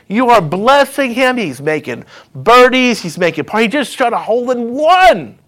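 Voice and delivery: acted incredulous complaint, pitch climbing; indignant protest. Holy Spirit questioning God about the golfer, indignant. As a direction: plead the case in mild outrage.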